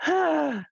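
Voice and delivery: imitated childish sigh. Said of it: "just childish noises, just sighing".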